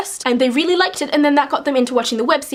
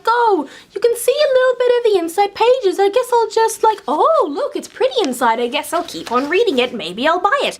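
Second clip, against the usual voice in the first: higher, breezy voice of a tempted book browser; lightly voiced mock shopper; mock browsing shopper; 6 semitones higher than usual. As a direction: play a shopper lured in by pretty pages, lightly voiced. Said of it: "because it's like".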